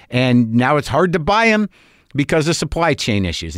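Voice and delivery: high, overly understanding tone; exasperated. Retold or imitated. Mock-patient reply to clerk.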